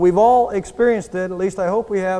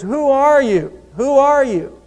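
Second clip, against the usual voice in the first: raised, higher frustrated yell; frustrated shout; 5 semitones higher, 3 dB louder, slower than usual. Retold or imitated. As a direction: shout up at a hidden voice. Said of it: "gets a little bit frustrated".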